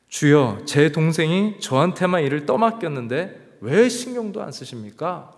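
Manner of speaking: half-acted snappy complaint to the Lord; Martha's exasperated plea, lightly acted; irritated outburst. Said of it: "막 버럭 예수님에게 짜증을 내고 화를 내는".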